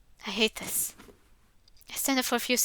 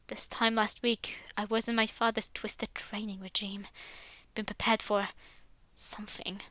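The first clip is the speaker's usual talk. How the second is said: remember it under the breath; reflective whisper; 3 semitones lower, 8 dB quieter than usual. Acted. Max quietly recalling his father's training in a whisper. Max's private memory.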